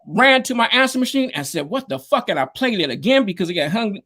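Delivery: high, thrilled telling of the voicemail; buzzing with disbelief, pitched high; excited retelling. Real, not acted. Teller reliving Roger's voicemail, high and thrilled.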